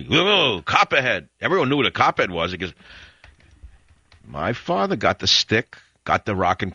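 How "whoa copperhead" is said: startled cry. Retold or imitated. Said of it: "Everyone ran away".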